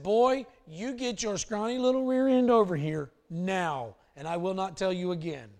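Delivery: stern father. Retold or imitated. Father commanding runaway son.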